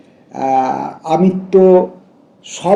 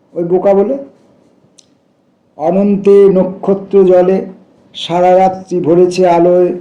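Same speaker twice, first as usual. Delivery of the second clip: measured, raised poem-reading voice; poetry recitation. Acted. Reader sharing a poem about foolish birds, recitation. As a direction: recite in sustained, shaped phrases.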